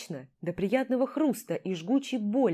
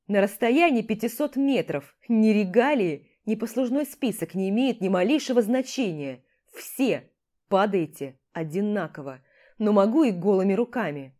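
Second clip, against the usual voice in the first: broken, breathless threat; 3 dB louder than usual. Acted. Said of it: "Получается прерывисто, не в один заход".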